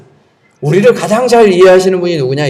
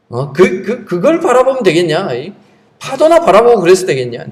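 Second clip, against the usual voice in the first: Jesus reproaching. Pretend. Jesus to sinking Peter, an imagined mild reproach. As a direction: chide a disciple in mild mock disbelief. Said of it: "예수님이 책망할 수도 있잖아요".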